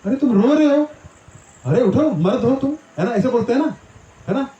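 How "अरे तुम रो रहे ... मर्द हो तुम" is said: rousing a crying friend. Retold or imitated. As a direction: shake him out of his tears. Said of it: "जैसे हम बोलते हैं ना किसी को".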